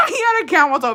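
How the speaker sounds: high, loud, through laughter; laughing. Real, not acted. Telling besties about his tight pants, laughing. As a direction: crack up while saying it. Cracks up repeating the punchline.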